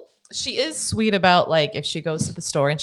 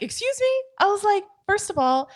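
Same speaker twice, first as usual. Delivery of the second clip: indignant comeback. Retold or imitated. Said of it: "I overheard and I'm like".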